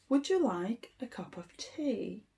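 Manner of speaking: a soft unvoiced teacher's model; whispered demo. Shown as a demonstration. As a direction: whisper the whole question. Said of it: "show you how to say it properly".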